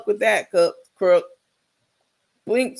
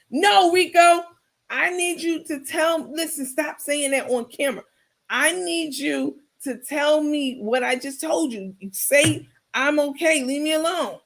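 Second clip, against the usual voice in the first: Carmen insisting; 6 semitones higher than usual. Retold or imitated. Carmen insisting, demonstrating line.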